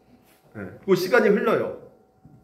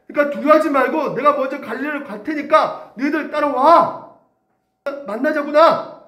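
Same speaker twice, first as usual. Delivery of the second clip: raised, earnest voice of Jesus; tender promise; 5 semitones higher, 3 dB louder than usual. Acted. Jesus calling his runaway disciples, tender and earnest. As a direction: promise them you'll never leave.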